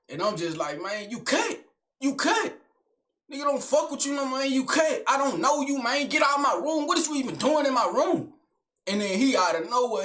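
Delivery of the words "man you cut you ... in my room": higher, heated, ordering him out; angry telling off. Retold or imitated. Teen ordering his uncle out of his room, heated and higher. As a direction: raise the voice and kick him out of the room.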